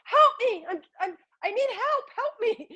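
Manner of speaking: high mock cries of a little girl for help; crying out for help. Reader voicing the card's little girl calling for help, high pleading cry. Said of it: "she's, like, crying out".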